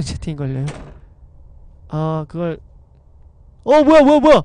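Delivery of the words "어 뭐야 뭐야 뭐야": high, loud frightened yelp; startled scream. Real, not acted. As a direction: shriek in sudden fright. Ghost suddenly appears in game. (깜짝 놀란 비명)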